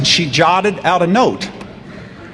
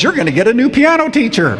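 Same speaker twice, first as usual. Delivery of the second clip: higher, laughing through the line; a mother trying not to laugh; amused mother; 6 semitones higher than usual. Retold or imitated. Mother amused by the teacher's note, telling her son laughingly. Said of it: "looks at me and smiles and goes".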